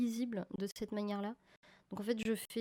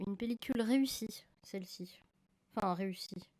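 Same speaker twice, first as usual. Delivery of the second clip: ironic whisper. Real, not acted. Ironic aside about her film.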